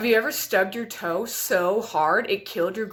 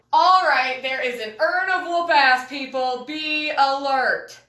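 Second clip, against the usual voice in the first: mock alarm; 4 semitones higher, 5 dB louder, slower than usual. Mock warning to audience.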